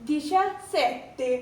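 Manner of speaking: दिशा सेते said slowly, stress on दिशा; slow model words. Shown as a demonstration. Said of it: "आ है तो क्या बन जाएगा".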